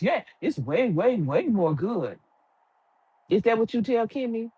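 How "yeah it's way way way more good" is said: slow, drawn-out mock agreement; mocking Maurice. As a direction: stretch out the way way way like a yes-man. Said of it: "and Maurice".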